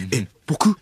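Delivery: 軽部. Acted. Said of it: "軽部アナと遭遇する".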